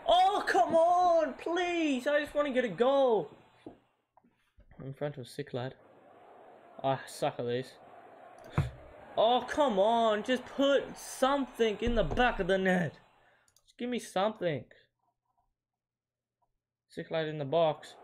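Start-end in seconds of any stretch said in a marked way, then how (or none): 0.1-3.3 high, drawn-out exasperated wail; exasperated pleading. Real, not acted. Begging the game for a goal. 9.2-14.6 raised pitch, exasperated plea; exasperated urging. Real, not acted. Urging a goal, frustrated.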